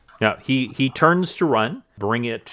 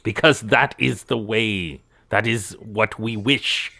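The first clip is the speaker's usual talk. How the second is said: pompous cultist. Acted. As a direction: insist with lofty importance. Game master plays boastful cultist.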